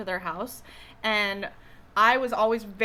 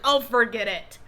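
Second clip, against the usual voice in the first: put-on annoyed great-grandma with a New York accent, louder; 7 dB louder than usual. Joked-with great-grandma getting annoyed, imitated New York accent. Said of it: "She had a heavy New York accent".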